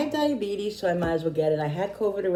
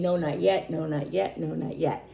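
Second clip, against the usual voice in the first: brushing it off. Retold or imitated. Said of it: "And I kept saying".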